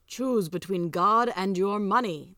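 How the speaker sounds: slow, deliberate ultimatum; stern heavenly command; solemn angel. Acted. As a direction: pronounce it slowly, with weight.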